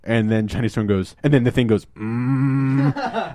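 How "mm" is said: long mock grumbling "mm"; exaggerated humming noise; imitated drawn-out hum. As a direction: hold a comic wordless murmur. Imitates the Thing's noise, others laugh.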